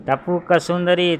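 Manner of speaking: slow, high call stretched out; calling from the cave. Acted. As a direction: jackal calling his secret phrase out of the cave to scare the lion. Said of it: "શિયાળી નથી બોલ્યા".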